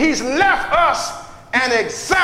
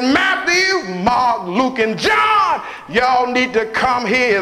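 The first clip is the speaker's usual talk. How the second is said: preaching whoop; slower than usual. Acted. Preacher whooping to the congregation about giving. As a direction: moan it out like a preacher. Jesus calling disciples, whooped.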